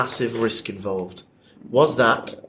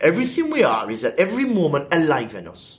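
put-on a light, half-hearted Geordie accent; attempted Geordie accent; 4 semitones higher than usual. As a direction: have a go at the quote in a Geordie accent. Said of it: "Try and do it in a Geordie accent".

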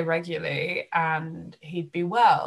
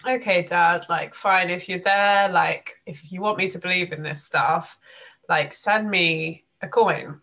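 a louder half-joking demand to the sky; louder plea to dad; 5 dB louder than usual. Retold or imitated. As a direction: insist out loud, daring him to answer. Calling out to late dad.

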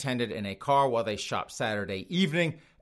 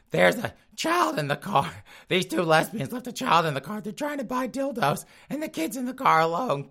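much higher, fussy alarmed tattletale voice; mock tattling caller; 9 semitones higher than usual. Customer phoning 911 about the child, high mock-alarmed tattling. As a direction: squeal like a scandalised customer reporting them. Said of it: "someone calling up nine one one".

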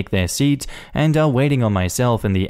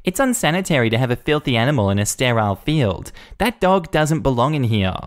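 mock bark; 4 semitones higher than usual. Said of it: "Karen barks back".

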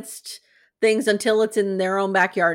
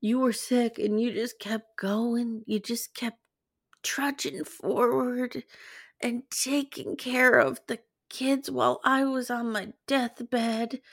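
a hint of a soft, slow Robin voice, softer; lightly voiced wife, drawn out and softer; mock Robin; 3 semitones higher, 6 dB quieter, slower than usual. Host imitating Robin praising Cody, lightly voiced and slow. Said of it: "Robin springs to life here".

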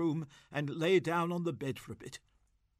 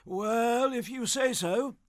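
doubtfully; 9 semitones higher, 6 dB louder, slower than usual. Acted. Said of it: "said Gussie doubtfully".

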